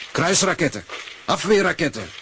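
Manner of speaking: rising alarm. Acted. Husband working up over missiles.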